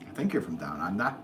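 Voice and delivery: badly faked Aussie accent; bad Australian accent. Livestreamer guessing a viewer's country, bad Australian accent. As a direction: attempt a hammy Australian accent and miss. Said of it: "that's a horrible accent".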